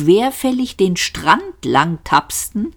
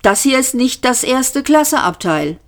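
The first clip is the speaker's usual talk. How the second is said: high-voiced Arthur; 7 semitones higher than usual. A narrator's reading. Arthur complains aboard the spaceship.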